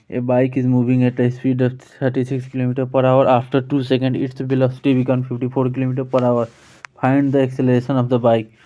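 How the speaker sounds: very slow, word by word, reading the definition aloud; slow dictation reading. Shown as a demonstration. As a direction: read it out slowly so students can follow. Reads question aloud. (बहुत धीरे-धीरे पढ़कर सुनाना)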